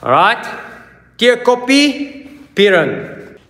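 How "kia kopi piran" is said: choked, squeezed shout, slow and high; strangled voice. Real, not acted. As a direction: force it out as if being strangled. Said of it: "You sound like you're being strangled".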